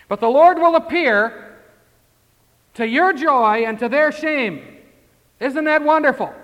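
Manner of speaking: full-force preaching. Acted. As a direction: proclaim it to the whole church.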